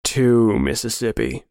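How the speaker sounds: slow, drawn-out count; menacing countdown. Acted. Friend counting down before the hunt, slow menace. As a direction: stretch out the number as a threat.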